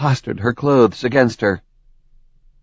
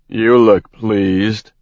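stern; slower than usual. Acted. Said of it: "with a stern frown".

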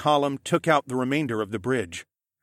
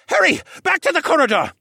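high, loud shouted command; urgent order; 8 dB louder than usual. A narrator's reading. Jenner grabbing Alex as he runs, shouting orders. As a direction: order everyone back at once. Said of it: "he ordered".

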